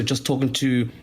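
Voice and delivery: usual speaking voice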